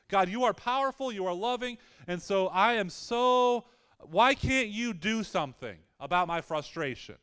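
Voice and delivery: a touch of exasperated pleading; frustrated prayer. Retold or imitated.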